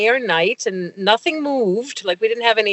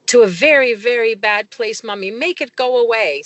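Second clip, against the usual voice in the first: lightly voiced child pleading, higher; pleading toddler; 4 semitones higher than usual. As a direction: plead like a frightened toddler, mildly acted. Retold toddler pleading with mother.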